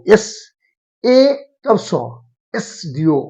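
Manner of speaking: "एस" split into an e vowel, then so; sounding out. Shown as a demonstration. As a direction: break down "एस" sound by sound, then join it in "एसडीओ". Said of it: "vowel से ही उच्चारण होता है".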